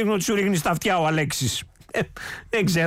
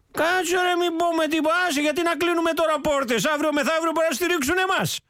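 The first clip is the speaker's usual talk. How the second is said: higher, sly whispered-thought voice; mock inner voice; 10 semitones higher than usual. Host mocks the party leader's secret thoughts, in a higher voice. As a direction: voice his scheming thoughts, pitched up. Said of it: "Σου λέει".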